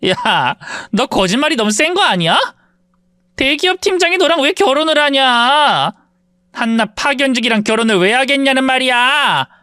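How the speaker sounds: put-on mean girl scoffing at the narrator's husband; scoffing classmate. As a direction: laugh off the claim as a lie.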